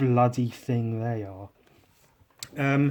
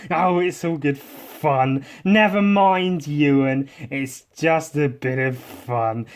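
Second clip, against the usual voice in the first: hammed-up dismissive grown-up; 3 semitones higher, 7 dB louder, slower than usual. Voicing adults dismissing pond trauma again.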